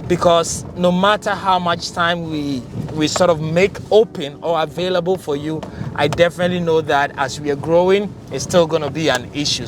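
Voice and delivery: talking while driving over bumps; on a bumpy road. Real, not acted. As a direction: voice jolted by a bumpy drive. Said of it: "Sorry for the bumpy road".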